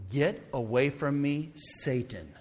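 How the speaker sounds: measured, slow stern rebuke. Acted. Jesus turned to Peter to rebuke him, very sternly. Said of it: "said to Peter very sternly".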